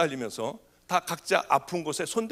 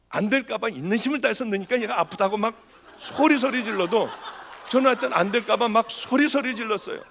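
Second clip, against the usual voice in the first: laughing retelling; 4 semitones higher than usual. Real, not acted. Retelling frantic shouting, audience laughing.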